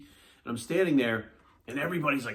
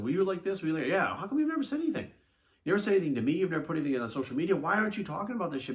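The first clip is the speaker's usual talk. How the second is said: higher, retelling disbelief at silent friends; incredulous retold question; 4 semitones higher, faster than usual. Speaker to friends who never mentioned covid, incredulous. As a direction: ask like you can't believe they hid it.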